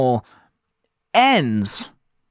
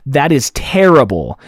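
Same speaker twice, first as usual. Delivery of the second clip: gain too high; 6 dB louder than usual. Real, not acted. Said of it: "it's not sounding good".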